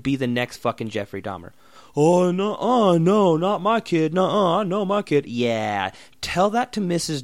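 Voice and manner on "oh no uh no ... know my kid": high, insistent denial of a clueless parent; a hammed-up mom sure her kid is perfect; mock proud parent. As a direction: play the parent who won't hear a word against their kid.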